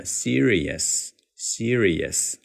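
serious sounding like "see-ree-yes"; native serious. Shown as a demonstration. Teacher gives the native linked serious. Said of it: "最终读成这个版本".

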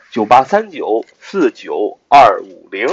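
number said again slowly, digit by digit; slow it down so they can copy it; slow repeat. Shown as a demonstration. Teacher repeating the group number slowly for listeners. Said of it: "我们的Q Q学习交流群是九八三九四九二五零".

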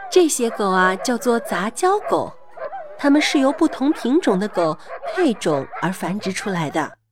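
put-on gentle storybook voice for kids; reading to a toddler. A narrator's reading. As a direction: read it sweetly to a little child. Reads a dog story to kids.

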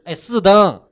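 high, loud puppyish yelp. Acted. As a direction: yap it out like an eager puppy. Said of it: "不要再学小奶狗了啊".

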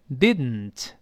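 "didn't" with air let out through the nose; drawn-out "didn't" with a nasal release; nasal plosion. Shown as a demonstration. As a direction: go straight from d to n in "didn't". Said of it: "鼻子出气儿".

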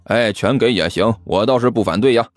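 low, teasing agreement; mildly cheeky and pleased; smiling. Acted. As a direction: take up the offer with a sly smile. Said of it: "齐健笑眯眯地说道".

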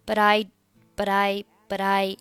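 "but I" with a light, blurred d; blurred linking. Shown as a demonstration. Teacher showing the vague sound, "but I" loosely linked. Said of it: "这个die的音呢是很模糊的啊".

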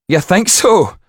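high, loud amused footman; laughing footman. Acted. Footman answers the coachman, high amused voice. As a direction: footman tosses it back, lightly laughing. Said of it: "laughed the footman".

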